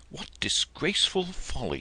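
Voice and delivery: high, breathless whisper of disdain; whispered scornful thought. A narrator's reading. Georgie thinking to himself in the dream, whispered scorn. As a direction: hiss the words as a private thought.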